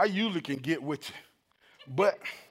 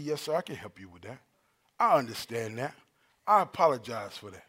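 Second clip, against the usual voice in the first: low, composed customer-service voice; soothing professional phone manner; 5 semitones lower than usual. Shown as a demonstration. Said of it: "I put my voice on".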